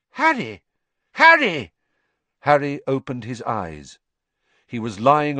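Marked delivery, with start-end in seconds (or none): 0.1-1.7 very high cry, louder the second time; urgent calling. A narrator's reading. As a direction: call out to wake someone from a nightmare. Calling to wake Harry.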